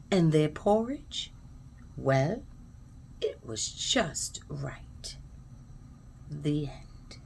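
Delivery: low, slow, near-whispered close; hushed ending. A narrator's reading. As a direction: let the story settle softly to sleep. Hushed close of bedtime story.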